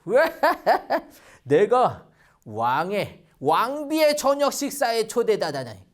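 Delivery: lightly voiced gloating Haman, chuckling; a proud man pleased with himself; smug delighted Haman. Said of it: "하만은 너무 기분이 좋았어요". (우쭐해서 들뜬 하만 목소리)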